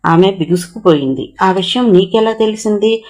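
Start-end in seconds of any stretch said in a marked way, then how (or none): 1.4-3.0 higher, lightly astonished question; a touch of disbelief in the ask. Acted. Narmada asking Rampandu how he knew, lightly astonished. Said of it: "విస్మయంగా అడిగింది".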